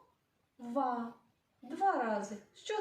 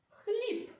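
high rising Хліб; Хліб said high for children; high teacherly call; 12 semitones higher than usual. Shown as a demonstration. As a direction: sing Хліб up high to the class. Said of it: "Розкладемо на частинки".

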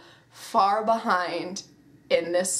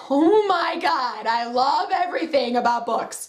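gushing excitement; 4 semitones higher, 4 dB louder than usual. Retold or imitated. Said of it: "and I was like".

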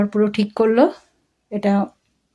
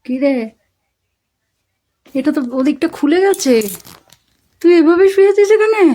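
pet-talk voice; 7 semitones higher, 5 dB louder than usual. Real, not acted. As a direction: coo at the pet in surprise. Talking to her pet.

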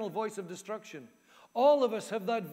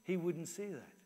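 lightly voiced inner critic, kept low; accusing inner voice; 3 semitones lower than usual. Inner critic answers a compliment to the preacher, mildly accusing. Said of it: "internal voice is also saying to me".

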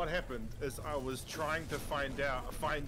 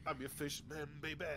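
gurgling fish man croak; 11 dB quieter than usual. Pretend. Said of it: "Listen to me go blub".

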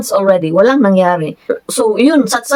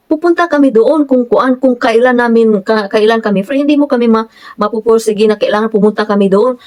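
annoyed; 3 semitones higher than usual. Retold or imitated. Surveyor refusing to be pushed into visiting, imitated annoyance. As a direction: put the client off, imitating annoyance. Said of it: "Parang nagalit na siya".

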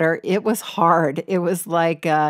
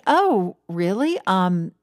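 mock surprise; 3 semitones higher than usual. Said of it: "And I was like".

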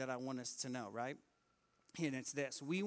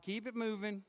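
Peter as line attendant; 5 semitones higher, 4 dB louder than usual. Acted. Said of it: "like he's at the amusement park".

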